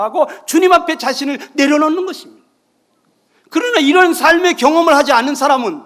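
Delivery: loud, high, impassioned sermon; 열정적으로 외치는 설교; fervent preaching. Acted. Fervent preaching and acted prayer. (회개 기도를 높고 크게 외치듯)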